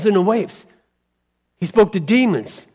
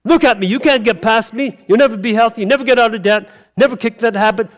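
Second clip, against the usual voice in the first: the mountain sneering at you, mildly voiced; taunting mountain voice; 3 semitones higher, faster than usual. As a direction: play the doubt taunting you. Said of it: "that's the mountain speaking back to you".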